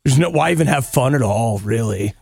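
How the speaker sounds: mock catastrophizing. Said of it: "jaded about stuff like".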